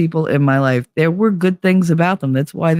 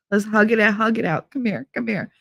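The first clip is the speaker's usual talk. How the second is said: quieter, cajoling invitation to make up; soft coaxing; 3 semitones higher, 5 dB quieter than usual. Acted. Happy drunk calling someone over to hug it out, soft coaxing. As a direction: coax them in softly for a hug.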